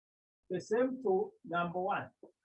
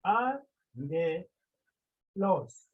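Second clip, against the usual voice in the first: "a" pitched above "nge" in "a, nge, los"; high accent demonstration; 4 dB louder, much slower than usual. Shown as a demonstration. Teacher showing where it is high, accent demonstration on "a, nge, los". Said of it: "Here is high".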